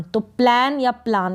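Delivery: प्लान first as plen, then as plaan; teacher offering both readings of प्लान; two pronunciations. Shown as a demonstration. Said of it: "दोनों ही correct है".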